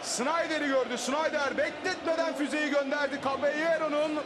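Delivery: high, thrilled commentator; excited commentary. Real, not acted. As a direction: keep the goal buzz going. Replaying goal build-up excitedly.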